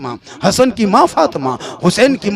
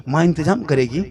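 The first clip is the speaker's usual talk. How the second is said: ordinary delivery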